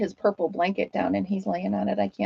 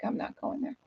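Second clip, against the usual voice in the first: dog's thought voiced; 3 semitones higher, 13 dB quieter than usual. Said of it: "looks back like".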